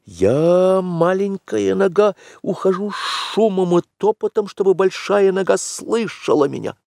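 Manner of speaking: put-on very high boy's voice; excited young Mowgli. Mowgli working out the broken twigs, excited and high. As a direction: puzzle it out, then burst into high, eager discovery.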